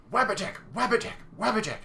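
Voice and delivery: high, loud manic cries of a zealot; mock screaming. Crazy follower pestering the player at random, mock screaming. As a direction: imitate a crazed follower shrieking one word over and over. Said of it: "starts screaming".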